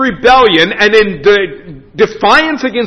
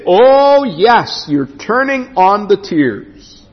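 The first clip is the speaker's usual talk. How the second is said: lightly voiced dad, slowing down; a hint of Dad unconvinced by the crying; imitated knowing dad; slower than usual. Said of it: "as my dad used to say".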